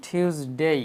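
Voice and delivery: টিউসডে with aspirated T, "thyuz-dey"; correct Tuesday. Shown as a demonstration. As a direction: puff the first T of টিউসডে, lengthen "dey". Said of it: "টিউসডে না বলে আমরা বলবো". (টিউসডে শুদ্ধ উচ্চারণে, ঠ দিয়ে)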